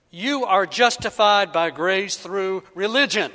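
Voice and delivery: loud, sure misquote ending on religion; mock misquote. Shown as a demonstration. Preacher misquoting Romans a third time, confidently. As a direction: proclaim it, landing on "religion". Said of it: "no, that's not it".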